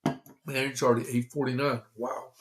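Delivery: catching his breath between words; breathless, winded after talking. Real, not acted. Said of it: "As I catch my breath".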